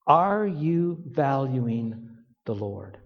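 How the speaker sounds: hushed question. Acted. Pointed question to the men.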